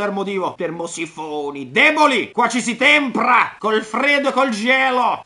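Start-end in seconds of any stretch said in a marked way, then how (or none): 1.7-5.2 mock contempt. Mocking the weak southerners.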